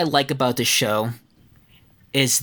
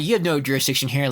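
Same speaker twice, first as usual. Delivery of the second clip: put-on African accent; faster than usual. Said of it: "my African accent".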